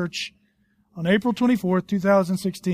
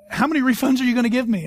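laughing disbelief; 4 semitones higher, faster than usual. Retold or imitated. Laughing at botched order.

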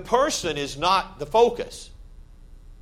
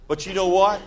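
preaching build-up; 5 semitones higher, 7 dB louder than usual. Real, not acted.

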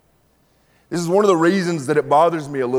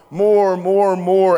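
mock begging, higher and louder; whiny more; 7 semitones higher, 6 dB louder, much slower than usual. God hears people begging, mock whiny more. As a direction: whine it like a greedy child. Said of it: "he sees us going".

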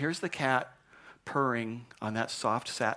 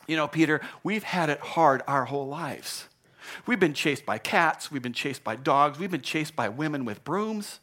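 spokes mouse; 4 semitones higher than usual. Acted. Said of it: "picked a spokes mouse".

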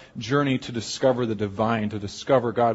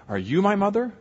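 pitched up high like a small chick; baby bird voice; 8 semitones higher than usual. Acted. Baby bird asks the dog in a high little voice. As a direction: ask it as the lost baby bird, high and hopeful.

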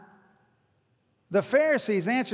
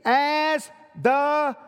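raised, emphatic preacher's proclamation, slowing at the end; crying out; 3 semitones higher than usual. Retold or imitated. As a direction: imitate calling out to a crowd, without yelling. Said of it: "He cried out so everybody could hear".

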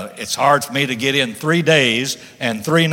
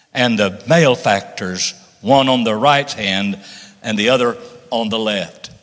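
scripture reading. Acted. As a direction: read the verse with solemn weight.

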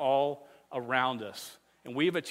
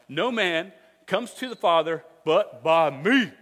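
fun emphatic recital; 5 dB louder than usual. Shown as a demonstration. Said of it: "you gotta say it like that 'cause it's fun".

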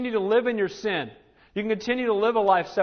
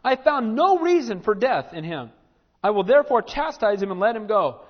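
higher, louder, emphatic protest; Pilate; 4 semitones higher, 6 dB louder than usual. Acted. Preacher as Pilate challenging the crowd over Jesus, protesting. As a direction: plead the case forcefully to a crowd. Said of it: "This is Pilate".

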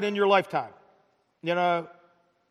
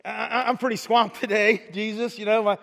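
busy excuse-maker. Retold or imitated. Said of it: "And we're like".

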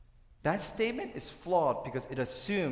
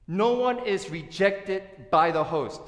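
loud and slow, leaning on "no"; preacher driving the point home; emphatic key point; 6 semitones higher, 8 dB louder, slower than usual. Real, not acted. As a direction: hammer home that nobody is turned away.

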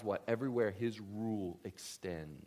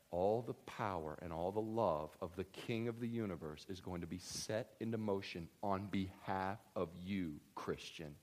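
softer, low and deliberate restatement; solemn preaching; 4 semitones lower, 7 dB quieter, slower than usual. Real, not acted. Preacher restates a promise to congregation, solemn and hushed. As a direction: let it land quietly and low.

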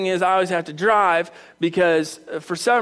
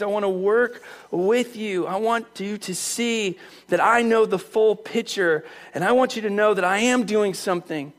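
gentle reassurance. Acted. God reassuring Elijah, gentle.

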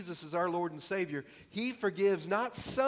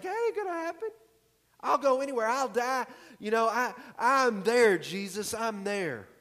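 much higher, louder boastful Peter voice; brash Peter; 6 semitones higher, 5 dB louder than usual. Acted. Peter loudly vowing to Jesus he'll never leave: high and boastful. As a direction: puff up and promise loudly like an eager disciple. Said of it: "Peter's like".

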